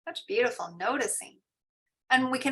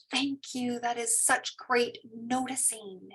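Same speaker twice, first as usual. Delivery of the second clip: warm praise; 6 dB quieter, slower than usual. Retold or imitated. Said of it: "And I'll say".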